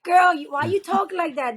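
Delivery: mock teasing. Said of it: "I got picked on, um, saying that".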